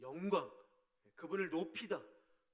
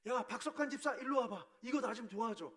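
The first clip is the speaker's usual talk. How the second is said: casual bossy call; 5 semitones higher, 3 dB louder than usual. Shown as a demonstration. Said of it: "이렇게 하지 말고".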